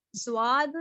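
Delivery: زواد with a z sound; wrong zwad demo. Shown as a demonstration. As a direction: say زواد to show the mistake. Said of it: "یہ تینوں طریقے بالکل غلط ہیں". (غلط تلفظ زواد)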